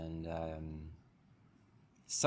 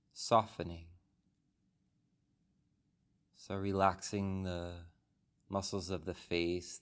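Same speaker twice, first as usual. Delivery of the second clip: calm, unhurried meditation guide, long pauses between phrases; soothing body-scan delivery with room to breathe; guided meditation. Real, not acted. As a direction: guide the group gently into stillness, phrase by phrase. Leads a guided meditation after the bell.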